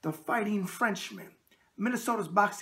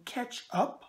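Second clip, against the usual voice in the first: said very slowly; 4 semitones higher, 4 dB quieter than usual. Real, not acted. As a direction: CATCH UP in two slow, separate words. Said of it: "I said that very slowly".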